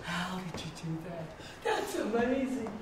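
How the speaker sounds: film crew amazed at an actor crying on cue, laughing. Retold or imitated. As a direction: play the crew member who can't believe it. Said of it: "And they go".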